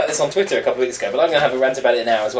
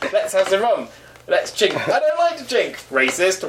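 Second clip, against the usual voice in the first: higher, showy stage delivery; stage performance voice; 6 semitones higher than usual. Pretend. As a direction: play it like a live stage act. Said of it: "come on stage".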